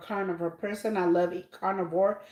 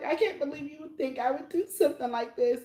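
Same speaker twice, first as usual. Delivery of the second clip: high-pitched tearful crying voice; 7 semitones higher, 3 dB quieter than usual. Recapping a show episode, quoting a woman's reply, imitating someone crying. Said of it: "And she's all crying".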